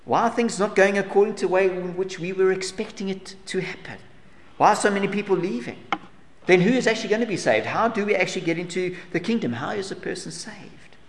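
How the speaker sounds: a lightly voiced anxious questioner, pitched a little up; asking as the puzzled follower would; questioning voice. Preacher voicing a worried follower's questions, mild anxious asking. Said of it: "this person asks".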